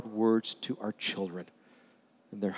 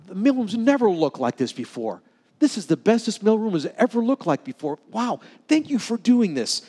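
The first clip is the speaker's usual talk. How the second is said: higher, lively thanks of an impressed boss; delighted praise; 7 semitones higher than usual. Retold or imitated. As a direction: gush over the work, pitch climbing. Senator praising intern's work.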